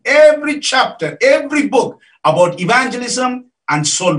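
insistent, high-pitched sermon delivery; emphatic preaching. Real, not acted. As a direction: drive the point home to the congregation. Preaches with force.

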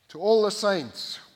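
"all" drawn out slow and loud; stress on ALL. Acted. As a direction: hit "all" hard, slow. Preacher repeats key phrase.

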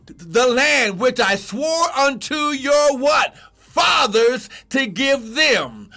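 slow, emphatic scripture proclamation; full-force preaching. Real, not acted. Preacher reading the promise to the congregation, full-force preaching. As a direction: proclaim the verse, stretching each key word.

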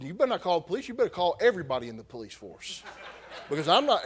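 half-laughing through the threat; laughing retold threat. Real, not acted. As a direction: laugh while you retell the threat. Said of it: "I'm not proud of that".

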